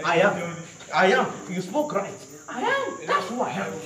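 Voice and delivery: lightly acted firm, emphatic answer; bold declaration. Preacher acts out Jesus answering his questioners, bold declaration. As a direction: declare it boldly, as if answering accusers.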